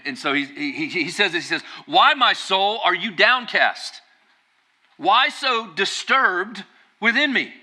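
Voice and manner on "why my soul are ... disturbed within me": high, slow self-questioning at the mirror; David. Acted. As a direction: question your own soul, pitched up and drawn out. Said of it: "I picture him just lo".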